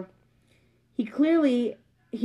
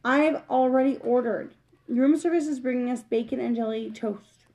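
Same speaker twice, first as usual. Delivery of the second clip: grandly; 2 semitones higher than usual. Acted. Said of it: "adding rather grandly".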